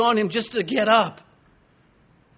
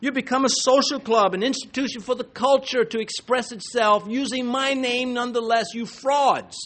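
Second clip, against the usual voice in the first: raised-pitch, heated rebuke to false churches; Jesus; 6 semitones higher than usual. Retold or imitated. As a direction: preach it as an indignant accusation. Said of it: "Jesus is sa-, saying to them".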